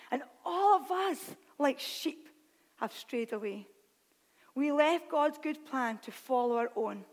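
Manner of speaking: solemn, measured Bible reading with weighted phrases; deliberate reading, leaning on key words; scripture reading. Acted. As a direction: read the prophecy aloud to a congregation. Reads Isaiah aloud to congregation.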